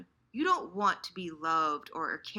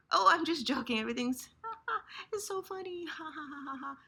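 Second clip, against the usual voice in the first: fake laughing; 7 semitones higher, faster than usual. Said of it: "the shadow you lock away behind".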